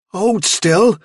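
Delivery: put-on a girl gripping a struggling rabbit; firm command. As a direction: hold the rabbit still firmly.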